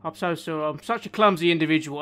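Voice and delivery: grovel theatrically to cover the bump; hammed-up sorry from a servant; mock apology. Character apologises after deliberate bump.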